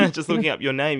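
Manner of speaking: laughing through the words. Real, not acted. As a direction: giggle while saying it. Laughs while repeating phrase.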